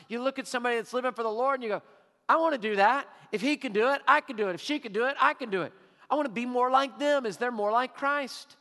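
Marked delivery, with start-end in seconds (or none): 2.3-8.6 louder, eager burst of resolve; eager inspired quote. Retold or imitated. To the congregation, voicing someone inspired by a godly friend, eager and louder. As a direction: announce it like you've just been inspired. Inspired churchgoer voiced aloud.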